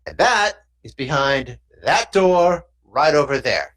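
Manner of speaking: lightly voiced thug explaining the job; a hint of street fixer, insinuating; thug deal-maker. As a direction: lay out the job like a mob middleman.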